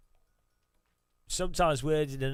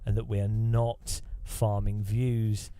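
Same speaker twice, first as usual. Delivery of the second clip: mock podcast bro; 2 semitones lower than usual. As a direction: parody the hype host selling junk. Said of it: "I need to talk like this".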